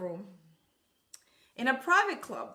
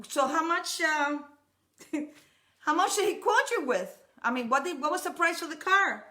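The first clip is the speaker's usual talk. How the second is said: higher, eager husband asking the price; curious husband; 4 semitones higher than usual. Retold or imitated. Husband on the phone asking what the car costs. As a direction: press for the price, amused. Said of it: "her husband said".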